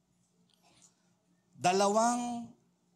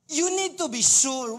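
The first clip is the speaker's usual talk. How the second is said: emphatic preaching; 8 semitones higher, 7 dB louder than usual. Real, not acted.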